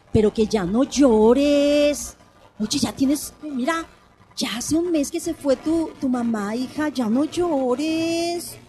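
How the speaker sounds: slow, firm "ya no llores" to a crying daughter; ordering mourner. Pretend. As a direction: scold grief away, slowly. Acted orders to grieving daughter.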